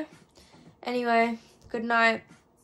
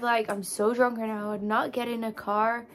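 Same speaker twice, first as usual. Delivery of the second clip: slipping into an American accent. Real, not acted. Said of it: "I don't know why I'm speaking an American accent".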